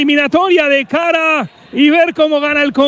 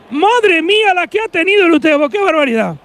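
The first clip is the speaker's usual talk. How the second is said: astonished; 3 semitones higher than usual. Real, not acted. Near miss by Utebo.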